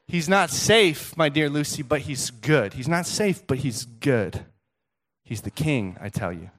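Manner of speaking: lightly acted, slow, weighty reassurance; Mister Beaver. Beaver explaining Aslan to little Lucy, lightly acted solemnity. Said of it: "Mister Beaver's like".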